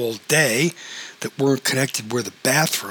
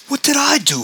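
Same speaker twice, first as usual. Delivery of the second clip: much higher, louder holler; 14 semitones higher, 4 dB louder than usual. A narrator's reading. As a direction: yell it in indignant protest. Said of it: "hollered George".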